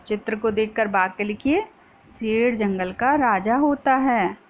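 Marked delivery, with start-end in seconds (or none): 2.1-4.4 dictating slowly. Shown as a demonstration. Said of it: "तो ऐसे लिख सकते हैं".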